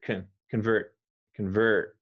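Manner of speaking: Convert clipped fast, kən-vert in one beat; quick convert. Shown as a demonstration. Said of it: "say it even faster".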